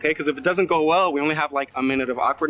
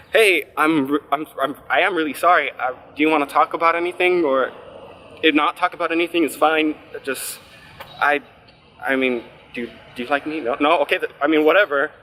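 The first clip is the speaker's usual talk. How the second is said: panicked babbling. Retold or imitated. Retold panicked babbling in the car.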